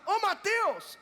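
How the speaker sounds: high, loud call across the store; man calling out Mateus across a supermarket, loud and high; calling from afar. Retold or imitated. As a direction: shout his name from far away. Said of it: "lá de longe o cara vira e fala".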